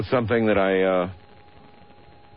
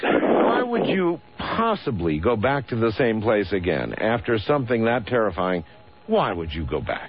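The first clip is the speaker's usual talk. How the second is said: incredulous. Real, not acted. Host baffled by caller's return.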